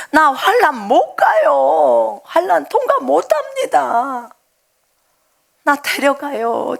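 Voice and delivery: begging the Lord, drawn out; slow mock wail of a frightened believer; retold tearful plea. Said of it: "막 울면서 소리를 질렀어요".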